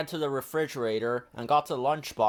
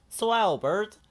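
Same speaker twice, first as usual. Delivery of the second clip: high, bright puppet-like Ernie; eager Ernie calling his friend; 8 semitones higher, 6 dB louder than usual. Acted. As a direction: lift into a cheerful high Ernie. Ernie's voice in story.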